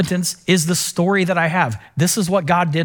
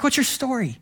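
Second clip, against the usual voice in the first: gentle question; 6 semitones higher, 5 dB quieter than usual. Retold or imitated.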